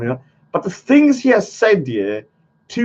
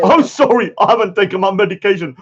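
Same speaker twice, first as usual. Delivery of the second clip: laughing through a mock quote; giggling while imitating him; mocking laugh in the words; laughing mimicry; 4 dB louder than usual.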